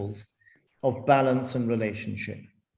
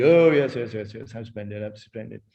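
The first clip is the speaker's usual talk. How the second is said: fawning agreement; 3 semitones lower than usual. Retold or imitated.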